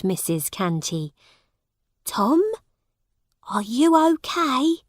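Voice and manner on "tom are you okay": high-pitched motherly concern; worried mother. A narrator's reading. Mother checking on her confused son, worried. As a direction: check on him anxiously, voice raised in pitch.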